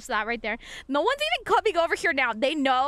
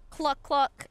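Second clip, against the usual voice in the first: clucking like a chicken. Pretend. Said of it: "heal people with my clucking".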